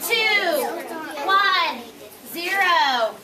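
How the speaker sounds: rally the class back; countdown. Real, not acted. Countdown to get attention.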